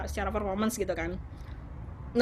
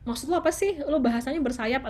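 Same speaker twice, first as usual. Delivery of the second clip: irritated confusion; 3 semitones higher than usual. Retold or imitated. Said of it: "tapi kita".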